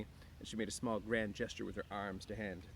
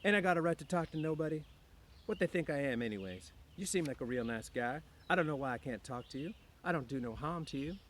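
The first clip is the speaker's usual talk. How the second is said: put-on higher, louder resentful young wife; Curly's wife, aggrieved; 6 semitones higher, 5 dB louder than usual. A narrator's reading. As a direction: protest loudly that nobody will talk to her. Curly's wife complains to Lenny.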